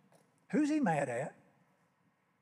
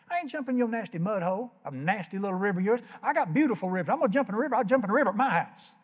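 mock furious rant; 4 semitones higher, faster than usual. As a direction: spit out the insult about the muddy river. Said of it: "And he's so mad now".

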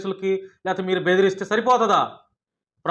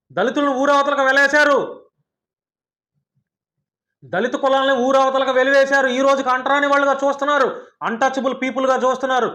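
indignant rant; 3 semitones higher than usual. Real, not acted. Protesting caste exclusion to her critic, indignant raised voice. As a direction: pound out each grievance.

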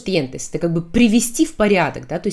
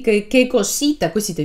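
kindergarten teacher; 3 semitones higher than usual. Shown as a demonstration. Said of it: "сюсюкаясь".

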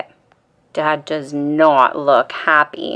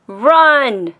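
higher, louder warning cry; yell; 7 semitones higher, 5 dB louder than usual. Acted. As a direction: shout it like a sudden alarm. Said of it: "Dad yells".

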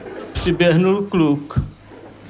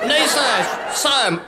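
high quick refusal flipping to yes; protest, then cave; defiant boy; 8 semitones higher, slower than usual. Acted. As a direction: kid squeaking no, then yes.

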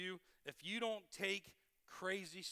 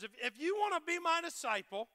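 voicing Jesus; 4 semitones higher, 4 dB louder than usual. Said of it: "Jesus said to his disciples".

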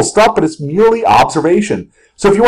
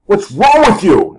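mildly acted exasperated scolding; half-earnest irritated outburst; mock cursing rant; 2 semitones higher than usual. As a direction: scold the chart, drawing out the last question. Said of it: "I'll just start cursing out of nowhere".

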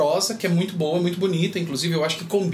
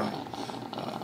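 soft breathy creak on ah; whisper-quiet relaxed fry; vocal fry; 8 semitones lower, 12 dB quieter than usual. Shown as a demonstration. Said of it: "Esse fry".

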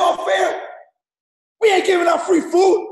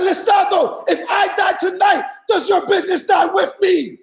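raised, emphatic repeat of the quote; pushing the upline's words out louder; louder for the back; 2 semitones higher than usual. Shown as a demonstration. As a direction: say it again so the back row hears. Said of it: "for my people who can't hear in the back".

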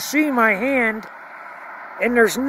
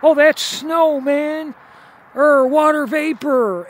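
higher, louder, dismissive mock voice of a doubter; mock skeptic commenter; 4 semitones higher, 3 dB louder than usual. Vlogger mocking an imagined commenter who dismisses him, higher and louder. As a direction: brush it off like a know-it-all commenter. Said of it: "have someone comment".

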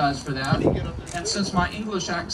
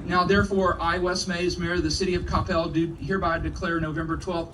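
formal proclamation reading. Acted. Reads proclamation aloud.

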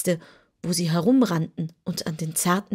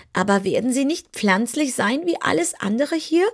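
higher, lightly voiced kitten; kitten asking; 6 semitones higher than usual. Kitten asks the wizard about the fish. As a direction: ask doubtfully like a small cat. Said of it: "fragte das Kätzchen".

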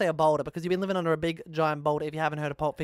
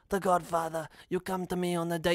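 lightly put-on Italian mobster accent; hint at a Godfather Italian accent. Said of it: "I can't do Italian accents".

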